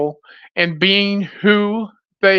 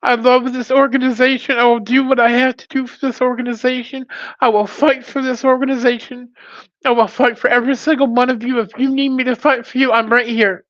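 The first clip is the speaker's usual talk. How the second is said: heroic rallying shout; 6 semitones higher than usual. Real, not acted. Rallying the driver community.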